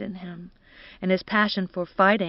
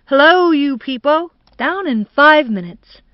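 loud, high hearty call; boisterous shouted greeting; 6 semitones higher, 8 dB louder than usual. A narrator's reading. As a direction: call out to the whole house, pitched up. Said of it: "Harry shouted".

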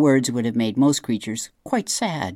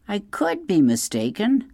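owl voice; 9 semitones higher than usual. A narrator's reading. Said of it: "said Swooper".

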